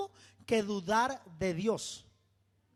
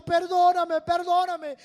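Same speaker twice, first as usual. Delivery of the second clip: louder, higher, desperate cries for forgiveness; screamed plea; 8 semitones higher, 8 dB louder than usual. Retold or imitated. Man in his cell screaming to God for pardon. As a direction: beg at full voice, pleading.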